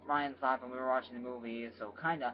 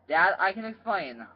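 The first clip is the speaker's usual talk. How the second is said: urgent, raised plea to father; pleading; 5 semitones higher, 6 dB louder than usual. Acted. Son caught on his boyfriend, urgently pleading. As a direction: blurt it out to calm dad down.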